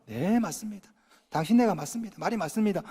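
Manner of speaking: soft, humble yes; teaching the congregation to agree softly; meek agreement. Shown as a demonstration. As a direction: concede gently. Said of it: "한마디만 하시면 돼요".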